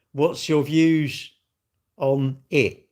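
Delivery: slow, drawn-out reading of the question; quoting the question. Retold or imitated. Quoting a viewer's question back at them, slow and drawn out. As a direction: read their words back to them slowly. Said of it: "but you asked me".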